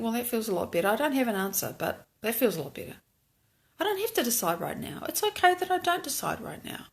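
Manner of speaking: hushed calm thought; quiet relieved inner voice. Retold or imitated. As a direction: murmur it to yourself, relieved.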